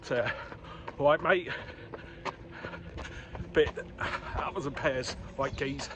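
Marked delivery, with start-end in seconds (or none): 1.0-1.5 light Cockney greeting; southeast London accent. Acted. Talking to friends from the southeast, in a Cockney accent. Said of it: "when I'm down here talking to my friends". 4.4-5.9 put-on southeast London accent. Showing how he talks down here, in a Cockney accent. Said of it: "I'm a bit".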